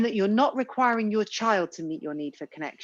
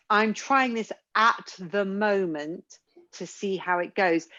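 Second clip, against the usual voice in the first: calm polite; slower than usual. Retold or imitated. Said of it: "when you talk about".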